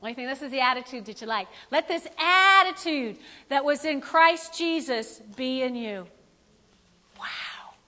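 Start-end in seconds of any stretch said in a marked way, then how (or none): 1.7-6.1 slow scripture reading. Acted. Rereading verse with attitude.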